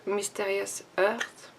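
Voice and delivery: slow, careful English product name with a French accent; slow French-accented English shade name. Real, not acted. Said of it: "excusez mon accent anglais".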